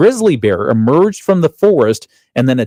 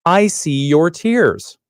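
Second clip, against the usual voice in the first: gentle reassurance; 5 semitones higher, much slower than usual. Shown as a demonstration. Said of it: "you could also say".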